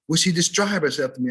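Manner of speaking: earnest "di-STRIBE" for "describe"; mispronounced describe. Retold or imitated. Student repeating himself to his professor, mispronounced describe. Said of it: "Did you say describe or describe".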